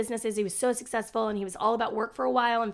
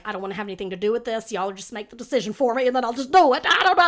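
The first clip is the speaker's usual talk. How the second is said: exasperated rant; 4 dB louder, faster than usual. Retold or imitated. Retelling her exasperated inner voice.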